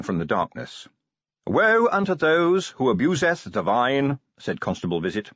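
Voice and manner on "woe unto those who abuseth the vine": preachy. A narrator's reading. Preacher constable quoting scripture.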